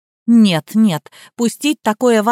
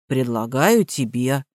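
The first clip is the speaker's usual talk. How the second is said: lower, quieter blank echo; dull parroting; 8 semitones lower, 4 dB quieter, slower than usual. A narrator's reading. Gardener echoes the vow low and soft. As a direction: mechanical repeat, slow.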